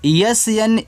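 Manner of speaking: एस एन ए के ई one by one; slow spelling. Shown as a demonstration. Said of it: "तो इसको पढ़ोगे आप स्नेक". (धीरे धीरे स्पेलिंग)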